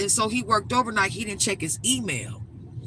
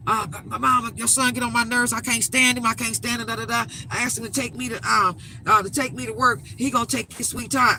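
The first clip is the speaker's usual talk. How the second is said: higher, whining grown son griping about his ride; mock a sulky complaint in a raised voice; whiny complaining; 4 semitones higher than usual. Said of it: "came in the house complaining".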